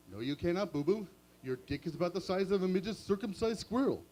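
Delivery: lightly voiced Yogi; dismissive cartoon bear.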